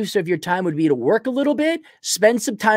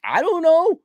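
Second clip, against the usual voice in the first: mock exasperation; 10 semitones higher, slower than usual. Exasperated reply to questioner.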